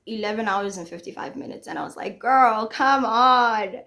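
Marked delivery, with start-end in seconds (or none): 2.2-3.8 retold exasperation. Retold exasperated reaction to livestream.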